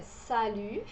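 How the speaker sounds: salut with puckered U and silent T; salut, final T left unspoken; French pronunciation demo. Shown as a demonstration. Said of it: "Aqui a pronúncia é".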